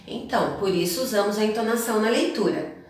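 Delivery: ordinary delivery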